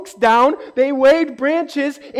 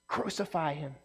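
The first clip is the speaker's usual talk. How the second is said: much softer, low and grim; ominous hush; 6 semitones lower, 13 dB quieter than usual. Retold or imitated. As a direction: let the crowd's cry land darkly and quietly. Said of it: "You know what they're yelling?".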